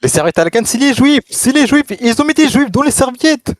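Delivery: put-on loud, performed Arab accent; hammed-up Arab accent at full volume. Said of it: "d'envoyer cet accent arabe".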